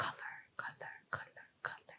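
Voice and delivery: whispered, barely audible, very quiet. Testing whether the listener can hear single whispered words, whispering. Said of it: "so I'm gonna do whisper some words".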